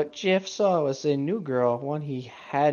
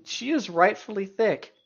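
mock indignant; 6 semitones higher than usual. Real, not acted. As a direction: defend her with fake outrage. Indignant defense, half joking.

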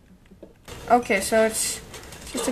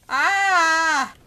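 cry of dismay; 3 semitones higher than usual. Real, not acted. Cry during gameplay mishap.

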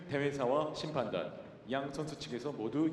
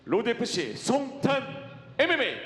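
slow, drawn-out name call, higher and louder; arena announcer; 9 semitones higher, 8 dB louder, slower than usual. Acted. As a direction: stretch the fighter's name for the crowd. Announcer calls fighter name.

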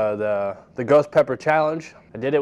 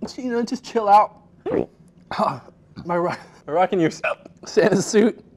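teary, strained reading; pushing through the burn; mouth burning from spicy food; 3 semitones higher than usual. Real, not acted. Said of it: "I just wanna cry".

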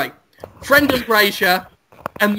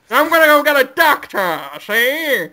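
hammed-up panic; 7 semitones higher than usual. Brendan Fraser rushes for a doctor, hammed up. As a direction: overdo the panic.

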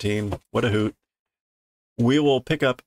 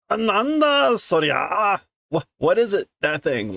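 put-on startled girl; 9 semitones higher than usual. Voicing girl startled by frog.

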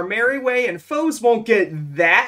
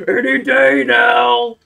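impatient shout; 2 semitones higher, 9 dB louder, slower than usual. Acted. Impatient at waiting enemies.

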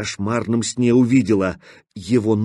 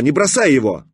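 urgent shout; 2 semitones higher, 3 dB louder than usual. A narrator's reading. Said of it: "крикнула она".

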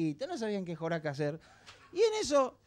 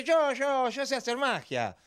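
put-on eager kid; 5 semitones higher, slower than usual. Pepito voiced in joke.

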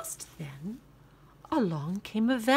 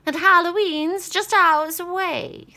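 high, loud cackling witch; 9 semitones higher, 9 dB louder than usual. Acted. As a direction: screech it like a witch. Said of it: "said the witch".

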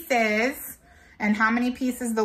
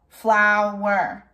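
"Flower" stretched into two beats, flow, wer; split into syllables; 2 semitones lower than usual. Shown as a demonstration. Teacher counts syllables for children, "Flower" split in two. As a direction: say "Flower" piece by piece, drawn out. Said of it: "Let's count the syllables".

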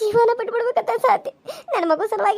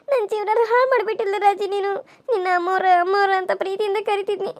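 tearful reproach. Acted. Wife blames betrayer.

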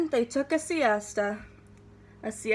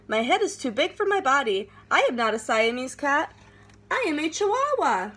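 put-on Spanish accent; 3 semitones higher than usual. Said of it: "using his very best Spanish accent".

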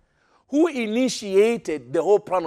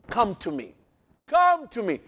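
pleading; 3 semitones higher than usual. Acted. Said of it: "That sounds like pleading".

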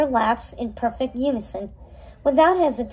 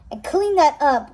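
commanding; 2 semitones higher, 3 dB louder than usual. Acted. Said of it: "Red commanded".

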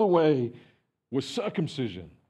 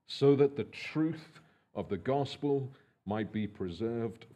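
measured, lower, quieter public reading of scripture; 4 semitones lower, 4 dB quieter than usual. Acted. Pastor reading Galatians aloud to the congregation, measured and lower. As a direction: read the passage steadily to the congregation.

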